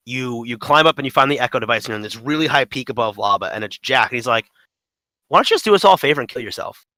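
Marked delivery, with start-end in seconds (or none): 5.3-6.9 taunting. Retold or imitated. Imitating Jack asking the player for a favor, mildly taunting. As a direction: toss it out as a pushy, put-on taunt. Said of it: "his taunts get so crazy".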